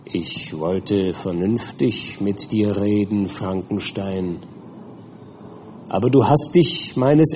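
cold threat that turns to command; menacing creature. Acted.

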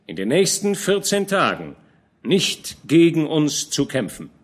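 old general scolding a young knight, lightly voiced; lightly voiced old commander. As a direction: admonish the young man gently but firmly. Fronsberg warns about oaths.

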